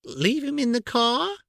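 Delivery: high, slow, thinking aloud; slowly. A narrator's reading. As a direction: drag the idea out, slowly plotting. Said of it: "said Aunt Petunia slowly".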